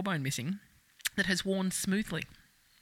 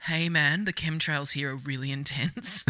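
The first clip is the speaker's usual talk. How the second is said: stoner vibrator voice; 5 semitones lower, 3 dB quieter, slower than usual. Pretend. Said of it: "vibrator walking around going".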